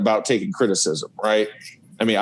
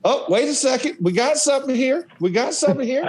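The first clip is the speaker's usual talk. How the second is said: high, gleeful mock-coach voice, much higher; imitating Coach Spurrier; 11 semitones higher than usual. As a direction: play the coach pouncing on a mistake in film. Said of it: "he goes".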